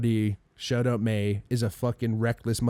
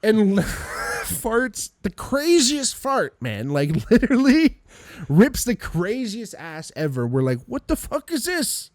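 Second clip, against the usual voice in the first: high, stretched-out words through laughter; laughing disbelief; 9 semitones higher, slower than usual. Real, not acted. Storyteller cracking up over a cop's fart, real laughing disbelief. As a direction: squeal it, cracking up at your own story.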